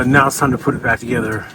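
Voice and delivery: talking with numb frozen lips. Real, not acted. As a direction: stiff lips, words barely shaped. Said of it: "I'm having trouble talking because my lips are frozen".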